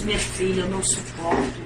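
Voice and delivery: a tormented soul begging softly; weary lament. Retold or imitated. Mother pleading to daughter from torment, soft weary lament.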